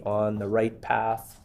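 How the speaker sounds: "right" leaned on, slow and deliberate; slow down and weigh "right"; stress on right. Shown as a demonstration. Minister to the chair, leaning on "right". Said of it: "I stress the word right".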